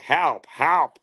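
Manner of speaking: high, squeaky cry for help; game robot cry. Retold or imitated. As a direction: imitate a tiny robot's short yelps. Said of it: "little robot on the bottom would be like".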